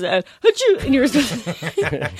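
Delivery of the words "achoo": loud, high fake sneeze; hammed-up audition sneeze. Shown as a demonstration. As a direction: blast out a stagey achoo. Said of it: "supposed to sneeze three times".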